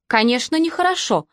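laughing. Acted. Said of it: "со смехом ответила Сисси".

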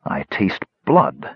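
slow and sharp; sharply. Acted. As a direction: bite the words out slowly. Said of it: "more sharply".

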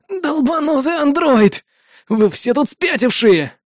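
high, slow, raging outburst; furious pained cursing. Acted. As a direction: spit out the insult in agony. Soldier curses the android.

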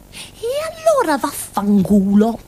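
slow, defiant mock swear borrowed from a friend; Maria's curse. Girl borrowing her friend Maria's swear word, slow mock defiance. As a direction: spit it out the way Maria would, slowly. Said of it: "come avrebbe detto Maria".

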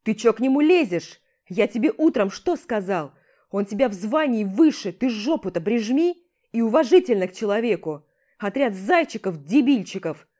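loud scolding tirade; angry commander. Acted. Commander berates the rival for starting it, loud scolding. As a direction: tear into him, furious.

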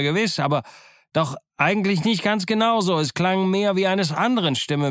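high, pondering, building; excited pondering sailor. Acted. George Merry works out whose voice it was, rising high.

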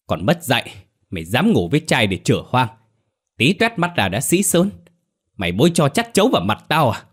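high-pitched angry scolding, speeding up at the end; shrill scolding. Acted. Mother shrieks at pregnant daughter, furious high scolding. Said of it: "la hét om sòm".

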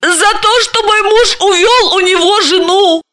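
a hint of a weepy complaint; Dalila's voice. Dalila voiced, higher than narration.

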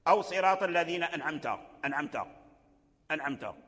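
أنعمت with a faulty nun; wrong nun. Shown as a demonstration. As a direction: demo the error in أنعمت. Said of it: "هذه القراءة باطلة ولحن".

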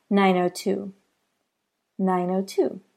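"nine oh two" with zero said as "oh", run together; linked demo. Shown as a demonstration. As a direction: flow "nine oh two" as one sound group. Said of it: "instead of saying zero, I said "oh".

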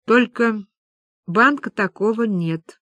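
understated, halting lifelessness; dead voice. Acted. Люба breaks the news to friends, dead-voiced. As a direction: let it out numbly, with long pauses. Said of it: "произнесла мёртвым голосом".

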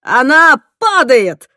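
loud, high, slow yell; a loud, high drawn-out yell. Acted. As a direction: shout the warning. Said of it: "заорал Тимоти".

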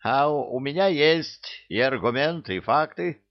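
growling. A narrator's reading. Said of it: "прорычала левая".

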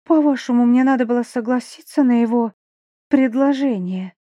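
angry. Acted. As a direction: snap back in anger. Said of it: "Это меня разозлило".

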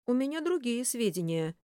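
grumbled from inside a helmet; muffled grumble through a helmet. A narrator's reading. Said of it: "буркнул из шлема Рубин".

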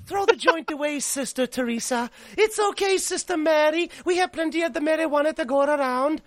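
lightly high-pitched put-on cardinal. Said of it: "I made him sound that way".

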